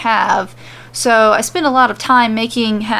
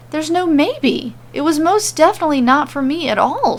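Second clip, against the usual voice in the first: higher, sharp irritated retort; snapping; 6 semitones higher than usual. Acted. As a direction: snap the words back at him. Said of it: "she snaps at him".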